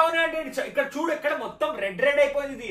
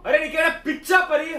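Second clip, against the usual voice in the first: loud scolding shout on పిచ్చా; angry shout; 3 semitones higher, 5 dB louder than usual. Acted. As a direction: yell it at her in disbelief. Angry boyfriend shouting at girlfriend. (కోపంగా అరుస్తూ)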